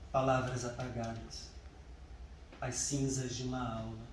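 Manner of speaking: measured poem recital with long pauses; unhurried, deliberate verse reading; poetry reading. Acted. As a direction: recite it line by line, letting each pause hang. Reads own poem aloud.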